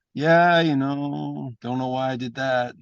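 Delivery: very slow, lazy stoner reply; stoned Roddy Piper. Retold or imitated. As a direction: stretch the yeah out like you're three joints in. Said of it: "he's always felt like he was three joints in".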